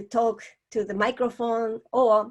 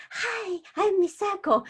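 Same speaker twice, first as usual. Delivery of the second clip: put-on little girl voice; 10 semitones higher than usual. Shown as a demonstration. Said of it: "upper voice to just imitate a little girl".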